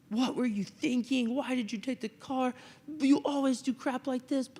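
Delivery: mock tirade from a fed-up father; imitating angry dad. Father scolding the kid about the car, mock angry. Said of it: "you're about to get an earful".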